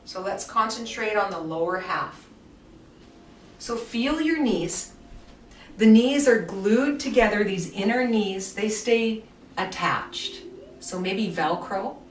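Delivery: calm guided movement voice with unhurried pauses; guided relaxation. Acted. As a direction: lead the class gently through the movement. Guides a guided body-awareness session.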